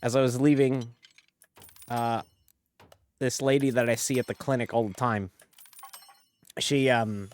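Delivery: put-on Jersey-Aussie-Southern mash-up accent; hammed-up Jersey-meets-Southern colonel accent; mixed-accent bit. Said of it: "I'm gonna actually talk normal now".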